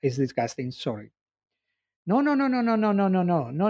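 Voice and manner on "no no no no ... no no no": urgent reassurance. Acted. David reassuring Marcias.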